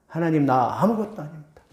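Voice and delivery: a humbled confession, 아무것도 falling gently; humble prayer. Retold or imitated. Preacher voicing a humble believer praying to God, softly. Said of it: "하고 하나님 앞에 낮아지는 자에게".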